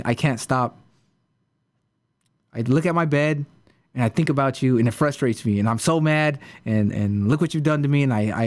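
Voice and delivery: mock exasperated rant, pitch jumping up at the start; retold angry outburst. Student confronts his teacher weeks later, mock angry rant. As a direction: act out a frustrated student venting, without shouting. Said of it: "he yells at Mister Gerson".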